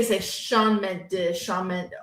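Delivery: repeated sounding-out. Shown as a demonstration. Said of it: "But you gotta say".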